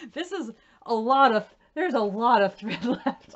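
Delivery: laughing it out, overwhelmed; half-laughing, half-crying, loud. Real, not acted. Overwhelmed by leftover thread.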